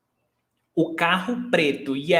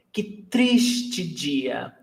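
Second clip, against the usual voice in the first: very slow, stretched-out "triste"; "triste" lengthened, then "dia"; emphasis on triste; 3 semitones lower, much slower than usual. Shown as a demonstration. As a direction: lean long on "triste" for emphasis. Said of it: "to emphasize what we want".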